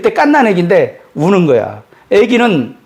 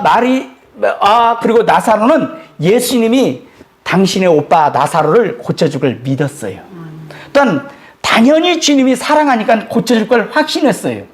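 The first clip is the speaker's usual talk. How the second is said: normal talking voice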